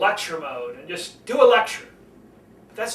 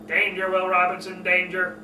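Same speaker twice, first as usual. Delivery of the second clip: robot voice. Retold or imitated. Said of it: "Robbie the Robot".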